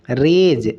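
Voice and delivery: रेज with long ए and a voiced ज ending; pronunciation shown. Shown as a demonstration. Teacher gives the differently pronounced option, sounded out. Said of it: "इसको ए ज लगा के पढ़ते हैं".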